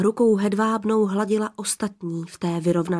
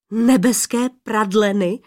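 a louder, incredulous question; blurted disbelief; 4 dB louder than usual. Acted. Adam blurting in disbelief at the old woman's advice. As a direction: blurt it out, not believing your ears. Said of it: "vyhrkl nevěřícně Adam".

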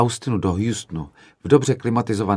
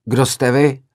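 higher and louder hot challenge; heated roar; 6 semitones higher, 5 dB louder, slower than usual. Retold or imitated. Director roaring back at the students, retold heated challenge. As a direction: fire the question back at the hall. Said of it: "zařval jsem rozpáleně".

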